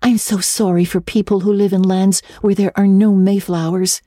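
lightly voiced eager girl; a hint of dreamy young Anne. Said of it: "said Anne".

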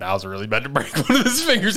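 quick words broken by laughter; laughing. Retold or imitated. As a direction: confess it while laughing. Confession, laughing.

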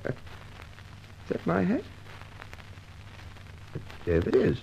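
breathy, slow whisper; half-voiced, slow and puzzled; whispered to himself. Inspector alone, noticing his hat, whispered.

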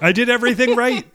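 quoting Ready or Not. Acted. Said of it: "We're, we're quoting Ready or Not".

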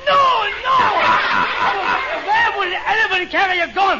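exasperated high shout; angry. Acted. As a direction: yell it, fed up. Angry denial of heckler.

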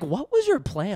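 high, loud, alarmed what-was-your-plan; hammed-up alarm on seeing the white van; mock alarmed question. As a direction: pretend to be spooked by the van. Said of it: "And so I was like".

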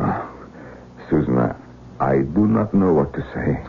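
gravely serious, halting delivery; solemn, with a hesitant pause after the name; serious, tragic. Acted. Man at a loss before his cheerful fiancée, gravely serious. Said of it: "you don't have to be so serious".

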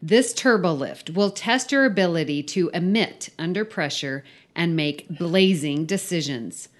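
emphatic read-aloud of a silly briefing; story read-out. Acted. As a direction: read the mission briefing with mock importance. Reads the filled-in story aloud.

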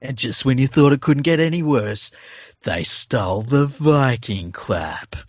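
slow, drawn-out movie trailer voice, half joking; slow dramatic mock promo voiceover. Co-host mocking the Panthers in a slow pregame promo voice. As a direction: lay it on like an over-the-top pregame promo. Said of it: "outrageous voiceovers for the pregame things".

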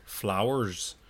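Flowers said carefully in two syllables; careful pronunciation. Retold or imitated. Imitating people who correct their accent, careful two-syllable Flowers. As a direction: say Flowers in full, correcting yourself. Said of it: "correct themselves and say".

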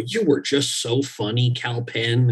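slow, drawn-out producer praise; mock flattery. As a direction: lightly imitate gushing producers, taking your time. Producers flattering him at audition.

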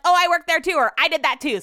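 loud, high mock me-too gushing; annoyingly eager. Imitating people who go up to strangers, annoyingly eager. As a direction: imitate someone butting in eagerly. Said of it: "that's that annoying thing".

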